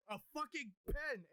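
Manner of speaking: high-pitched, slow exasperated protest; retold exasperation. Explaining to his wife what upset him, mock exasperated. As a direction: stretch it out in mock disbelief.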